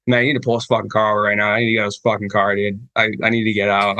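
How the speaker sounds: rapid, mildly panicked retelling; retold freaking out. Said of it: "I was, like, freaking out".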